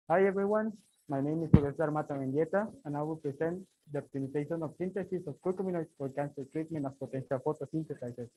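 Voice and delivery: muffled behind a face mask; talking through a face mask. Real, not acted. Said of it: "for the face mask".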